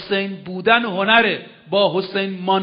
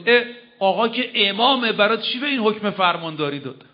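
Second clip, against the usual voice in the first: lightly voiced doubting listener, higher start; mock objector; 3 semitones higher than usual. Preacher mimics a listener questioning the Imam, mildly mocking. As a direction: toss it off like a sceptic. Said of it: "اینطور نیست که شما بگید".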